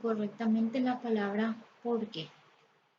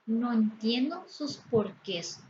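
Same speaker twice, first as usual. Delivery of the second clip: slow, careful example; slow example phrase; slower than usual. Shown as a demonstration. Teacher slowly models the plural "porqués". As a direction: spell out the example for students. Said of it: "Entonces yo podría decir".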